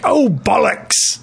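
slow, drawn-out mock British curse; mock British accent. Friend recalls a joke, lightly mock British. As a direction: stretch it out in a jokey British accent. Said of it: "then you were like".

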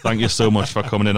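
laughing through the thanks. Real, not acted. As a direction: thank him while still laughing. Guest jokes about reluctance.

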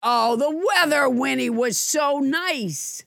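drawn-out, teasing gush; mock gushing. Teasing cohost about her admirer's love texts, mock gushing. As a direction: gush it slowly in mockery. Mockingly quoting a doting message.

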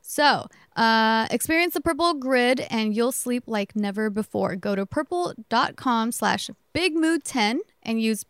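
upbeat sponsor ad read. Acted. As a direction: read it like a podcast ad. Reads the sponsor ad.

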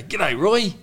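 high, loud, cheeky hello; cheeky greeting. Retold or imitated. Teen heckling the coach, cheeky high greeting. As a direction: chirp it out like a cheeky kid. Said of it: "even in that tone".

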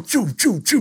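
quick "choo" bursts mid-sentence; imitated stage sound effect. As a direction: mimic the effects firing with the music. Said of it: "They did the whole choo".

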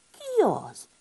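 high, frightened squeak; teeth chattering fright. Acted. Woken hedgehog calls out at the door, frightened. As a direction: call out scared into the stormy night. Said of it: "szólt ki fogvacogva".

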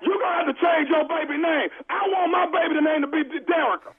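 lightly put-on stern caller; prank caller voice. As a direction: play a pushy stranger on the phone.

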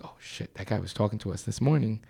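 voiceless, fast and hushed; whispered aside. Retold or imitated. Telling a friend about the suspect, whispered. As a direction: hiss it aside to your friend.

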